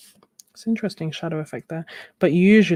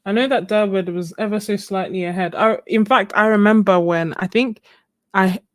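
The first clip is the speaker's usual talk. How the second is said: normal talking voice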